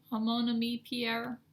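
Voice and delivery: slow, bad Southern accent on a French name. Shown as a demonstration. Stitcher reading the designer's name to viewers, in a bad Southern accent. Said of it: "Southern accent, that's really bad".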